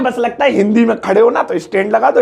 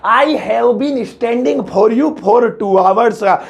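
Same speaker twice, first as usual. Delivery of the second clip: very slow, amused wrong sentence; slow chuckling mistake; laughing wrong version; much slower than usual. Shown as a demonstration. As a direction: drag it out while chuckling. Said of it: "नहीं".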